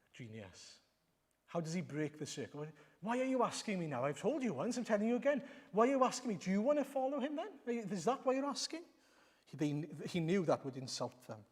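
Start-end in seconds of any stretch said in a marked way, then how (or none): 3.0-8.8 exasperated. Retold or imitated. Man mocking Pharisees, retold.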